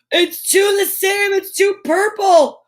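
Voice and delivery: high, slow and amazed; astonished, drawing it out; surprised. Real, not acted. Surprised reveal.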